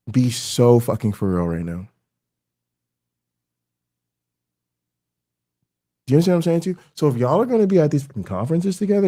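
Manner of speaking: heated, incredulous telling-off; exasperated scolding. Real, not acted. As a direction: berate them in exasperated disbelief. Berating women who failed their friend.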